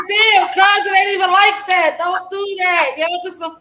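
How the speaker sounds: mock pleading. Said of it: "so I be like".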